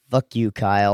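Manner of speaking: flat, lifeless monotone delivery. Retold or imitated. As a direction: say it dead flat. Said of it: "the most monotone Z voice".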